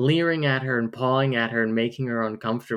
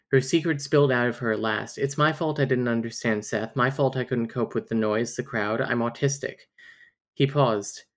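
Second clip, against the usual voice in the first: romance novel narrator. Acted. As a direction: lightly read book narration. Reads a romance novel passage.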